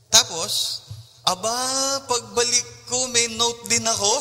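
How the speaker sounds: surprised at finding a note; mock surprise. Pastor finds a note on his own car, surprised.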